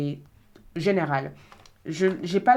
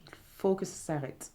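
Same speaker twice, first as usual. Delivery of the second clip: desperate plea. Retold or imitated. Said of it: "crier à l'aide en disant".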